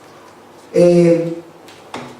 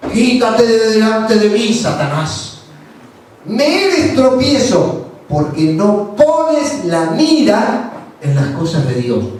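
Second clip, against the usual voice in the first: Jesus rebuking; 3 semitones higher, slower than usual. Retold or imitated. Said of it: "volviéndose dijo a Pedro".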